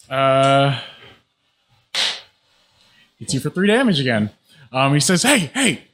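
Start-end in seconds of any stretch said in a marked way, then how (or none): 5.2-5.8 bandit warning. Acted.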